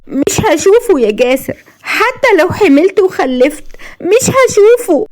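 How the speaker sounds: high, drawn-out anguish; pained, tearful. A narrator's reading. Blind wife grieves she won't see her baby, pained. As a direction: lament high and slowly, as if in tears. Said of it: "تنزل دموعها وقالت بألم".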